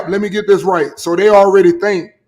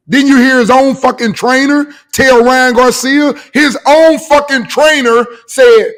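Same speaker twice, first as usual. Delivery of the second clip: louder and slow, hammering each word; heated emphasis; 3 semitones higher, 5 dB louder, slower than usual. Real, not acted. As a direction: pound the point home, slow and loud. Heated boxing argument with friend.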